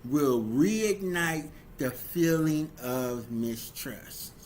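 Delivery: a heated, self-justifying apology that blames the other spouse; defensive bad apology. Spouse excusing the cheating with a hurt, accusing apology. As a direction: play the cheating spouse making excuses, bitter and wounded. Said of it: "These are things that people say and do".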